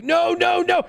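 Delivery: high, drawn-out repeated refusals; panicked no's. Retold or imitated. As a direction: plead against the screen. Panicked denials to security prompts.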